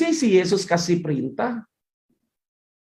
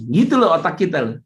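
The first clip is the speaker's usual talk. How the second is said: normal talking voice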